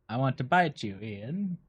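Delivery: lightly voiced cat; cat's voice. Cat answering its owner about biting, lightly voiced. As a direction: speak softly for the pet, barely put on. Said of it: "that's his voice".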